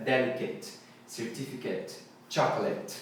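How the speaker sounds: "Delicate", "certificate", "chocolate" each ending in short ET; soft list of "Delicate, certificate, chocolate" with short last vowels. Shown as a demonstration. Teacher recaps the noun rule, "Delicate, certificate, chocolate" ending short. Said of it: "é at".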